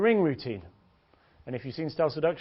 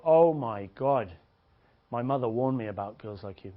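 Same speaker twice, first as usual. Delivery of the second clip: pretend shock; 4 semitones lower than usual. Coach pretends shock at her palm, mock horror. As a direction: stretch the exclamation in feigned horror. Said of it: "you pretend to be shocked".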